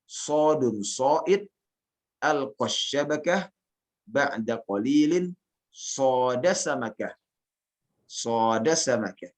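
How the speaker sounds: slow, measured Arabic verse recitation; teacher modelling a verse line. Shown as a demonstration. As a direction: recite slowly, lifting each phrase ending until the last. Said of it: "Anda bacakan syairnya".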